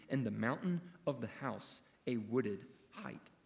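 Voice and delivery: measured scripture reading. Acted. Preacher reading Micah to the congregation, measured. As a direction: read the prophet's words with weight. Reads Micah passage aloud.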